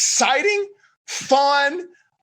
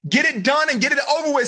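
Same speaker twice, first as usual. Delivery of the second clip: relaxed buddy voice; 5 semitones higher than usual. Retold or imitated. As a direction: talk him down like a chill pal. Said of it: "says Dawson".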